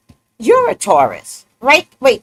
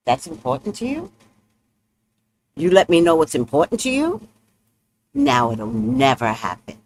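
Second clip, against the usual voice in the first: stubborn Taurus; 4 semitones lower than usual. Retold or imitated. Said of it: "That's a Taurus".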